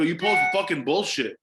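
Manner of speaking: laughing through the words; can't hold back a laugh while retelling it. Real, not acted. Retelling the talk with a friend, laughing.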